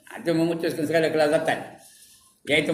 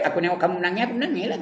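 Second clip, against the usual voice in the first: voicing Jibril; 4 semitones higher, much faster than usual. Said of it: "kata Jibril".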